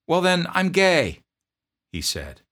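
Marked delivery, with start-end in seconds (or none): 0.1-1.2 put-on much higher, strained young voice; pleading private. Homesick private begging his drill sergeant, high plea. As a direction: plead like a scared recruit.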